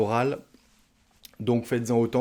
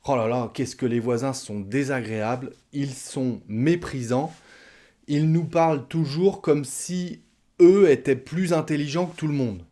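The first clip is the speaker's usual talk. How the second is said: annoyed wife; 3 semitones higher, 4 dB louder than usual. Retold or imitated. Wife complaining to her partner about neighbours, mock indignant. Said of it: "madame dit".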